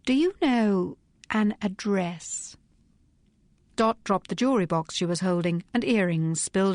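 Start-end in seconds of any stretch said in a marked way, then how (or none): 0.1-2.6 slow and deliberate; slow, weighted question. Acted. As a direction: lean on each word of the question. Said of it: "Phryne paused before going on".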